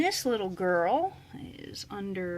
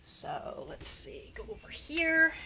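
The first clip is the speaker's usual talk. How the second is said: whispering; 4 dB quieter, slower than usual. Real, not acted. Quietly noting weight.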